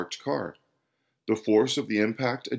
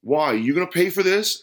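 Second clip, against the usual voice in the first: louder, higher, incredulous asking; sceptical, pointed question; challenging question; 7 semitones higher, 6 dB louder than usual. A narrator's reading. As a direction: ask it as a challenge. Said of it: "asked the man".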